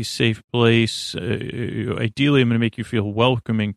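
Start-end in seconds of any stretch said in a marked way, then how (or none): 0.0-1.2 soothing safe place. Shown as a demonstration. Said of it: "I'm gonna say".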